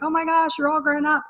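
high, bright "oh my gosh" of delight; delighted surprise. Retold or imitated. Stylist to grown-up former client, high delighted surprise. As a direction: squeal it like seeing a kid grown up.

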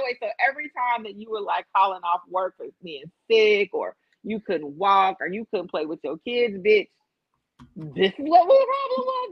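stack up the questions until it cracks upward; incredulous friend. Retold or imitated. Friend realizing the back pain was the ass shots, incredulous. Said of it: "She's like".

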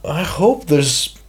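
whisper. Real, not acted. Unvoiced start of remark.

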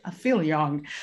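ordinary talk, nothing marked

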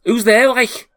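high, loud challenge through a door; shouting voice. Acted. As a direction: call out sharply to the strangers. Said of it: "a shouting voice".

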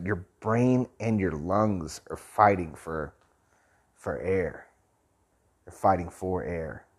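short of breath, slow and labored; breathless at high altitude. Real, not acted. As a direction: talk while winded from the thin air. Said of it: "for me right now".

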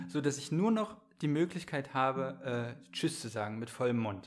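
talking around a bite of cake; mouth full. Real, not acted. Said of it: "so einen Softcake zwischen die Backen".

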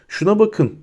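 high, understated horror; horrified. A narrator's reading. Neville seeing the transforming head, horrified. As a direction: point it out with a touch of dread. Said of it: "dedi Neville dehşet içinde".

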